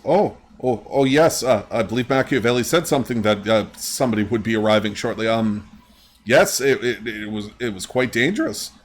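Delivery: lightly voiced secretary, slightly flustered; a hint of a nervous clerk. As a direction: stumble politely over the words as a busy secretary. Game master voices flustered secretary.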